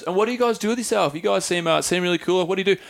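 lightly voiced curious old lady; imitated old woman. Old woman asking the men about their work, lightly imitated. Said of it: "she goes".

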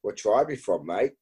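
light Kiwi Australian accent, retold; imitating a Kiwi Australian accent. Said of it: "a Kiwi Australian accent".

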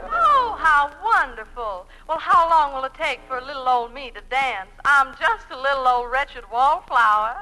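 lightly drawled Southern belle, sweet and coy; a hint of a Southern lady angling for favours; Southern belle accent. Woman asks the dancing professor for lessons, in a light Southern belle accent. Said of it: "pound cake with an accent".

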